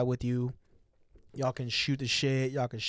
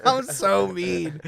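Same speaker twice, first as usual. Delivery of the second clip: mock-guilty confession; 7 semitones higher, 8 dB louder, much slower than usual. Mock self-judgment after laughing.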